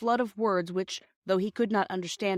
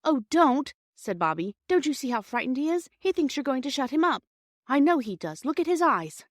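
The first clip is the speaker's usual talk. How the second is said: pleading; 7 semitones higher, 4 dB louder than usual. Acted. Bobby begs for the frightened stranger.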